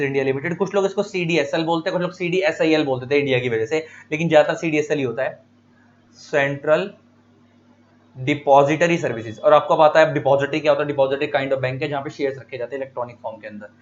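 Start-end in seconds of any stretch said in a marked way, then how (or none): 6.2-9.4 slow, spaced reading of the full form; slow dictation. Shown as a demonstration. Teacher dictating a full form to students, slow. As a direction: read it out word by word for students to copy. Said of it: "CDSL की full form ये रही".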